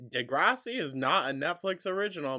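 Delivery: loud, high, fast objection; indignant correction. Real, not acted. Commentator correcting the vlogger, loud indignant objection.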